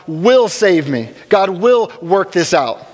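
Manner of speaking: slow, steady statement of trust; confident faith. Retold or imitated. Believer in hard times, slow trusting declaration. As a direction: say it slowly, sure of God. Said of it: "taking the position of".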